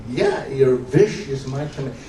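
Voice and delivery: slow, WISH pronounced "vish"; Yiddish-accented wish. Acted. Husband confirming his promise, Yiddish-accented "vish". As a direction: give wish a V at the start. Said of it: "V I S".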